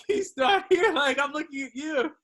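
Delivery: high, loud call from the back; mock urgent call. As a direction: imitate someone calling out in alarm. Acts out friend signalling from back.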